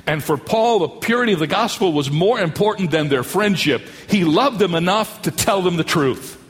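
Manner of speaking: preaching. Acted. Preaching the sermon.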